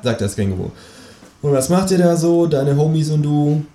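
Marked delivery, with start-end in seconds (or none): 1.4-3.6 mit nur leicht angedeuteter Figurenstimme fragen; frech fragend. Acted. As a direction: den Erzähler leicht verstellt sprechen lassen. Fragt das Känguru, Ich-Erzähler. (leicht verstellte Stimme)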